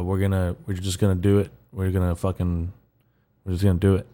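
rough just-woke-up voice; hoarse morning voice; raspy voice. Real, not acted. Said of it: "my voice sounds really raspy".

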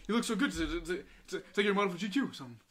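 high, loud gushing praise; Ryan gushing. Retold or imitated. Imitating Ryan complimenting his suit, loud and gushing. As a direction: gush like a big friendly guy. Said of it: "He's like".

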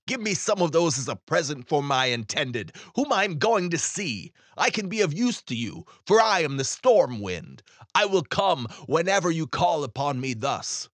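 a touch of bluster, voicing the wind; storm wind voice. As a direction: speak as the grand storm wind. Storm wind speaks to ferryman.

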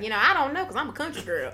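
a hint of country-girl mockery; mocking country girl. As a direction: gently mimic a country girl, half laughing. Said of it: "now you're mocking her".

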